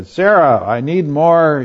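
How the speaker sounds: a demanding husband barking orders; bossy husband. Retold or imitated. Preacher acts Abraham ordering Sarah about, loud and bossy.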